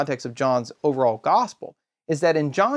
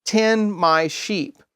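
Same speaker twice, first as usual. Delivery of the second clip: slow solemn quote; 4 semitones higher, much slower than usual. Retold or imitated. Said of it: "what does Jesus say?".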